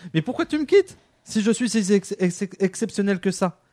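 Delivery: mock-wounded protest; indignant protest. Voices the dumped partner protesting.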